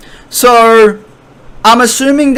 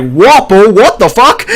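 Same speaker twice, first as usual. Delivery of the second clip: higher, half-laughing disbelief; mock startled outcry; 5 semitones higher, 3 dB louder than usual. Vivi spotting Wapol burst through, mock startled. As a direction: blurt it out in amused mock shock. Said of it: "Vivi's like".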